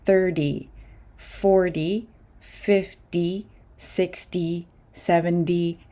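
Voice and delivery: "thirty, forty, fifty" with endings like "dee". Shown as a demonstration. Teacher lists numbers for learners with D-like T endings. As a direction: soften the T of each number to a D. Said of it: "This pronunciation works very similarly".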